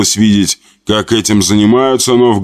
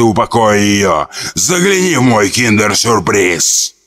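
gurgle it out like a swamp creature; gurgling drowned ghost. Acted. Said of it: "произнесло булькающим голосом".

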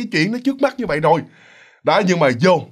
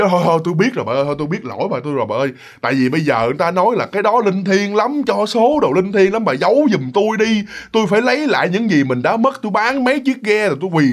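pleading husband, higher and urgent; van xin; 3 semitones higher than usual. Retold or imitated. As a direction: beg her to keep the secret. Chồng van xin vợ giấu giùm. (giọng chồng năn nỉ vợ)

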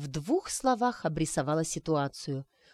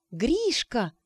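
higher, delighted gasp; gasp of recognition; 5 semitones higher than usual. Acted. Arina recognising her old counsellor, gasping. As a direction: it suddenly clicks. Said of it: "ахнула Арина".

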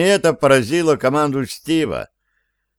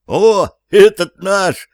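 high, slow, delighted cry; overjoyed; 8 semitones higher, 6 dB louder, slower than usual. Acted. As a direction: burst out in glad relief. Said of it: "обрадовался Петруччо".

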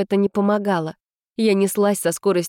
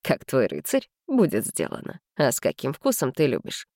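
lightly voiced gallant young man; 4 semitones lower, 4 dB quieter than usual. A narrator's reading. Max answers gallantly.

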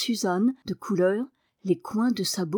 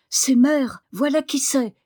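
higher and louder glad cry; excited cry; 5 semitones higher, 5 dB louder than usual. A narrator's reading. Dick seeing his mother arrive in the garden, joyful cry. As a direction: call out with joy at the sight of her. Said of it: "cria-t-il".

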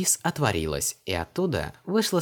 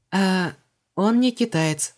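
much higher, louder rushed correction; hurried Vanessa; 11 semitones higher, 6 dB louder, slower than usual. A narrator's reading. Vanessa quickly corrects herself to Luise, hurried. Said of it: "торопливо добавила Ванесса".

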